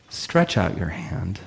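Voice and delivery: a slow, quiet, measured command; Jesus quietly tells the man to stretch out his hand; Jesus's command. Retold or imitated. Slow quiet command. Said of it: "And Jesus says".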